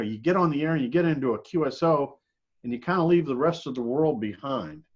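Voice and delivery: ordinary talk, nothing marked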